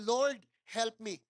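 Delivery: slow, earnest whispered-style plea; quiet prayer. Retold or imitated. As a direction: pray it simply and slowly from the heart. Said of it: "Sabi ko lang". (mabagal at taimtim na dasal)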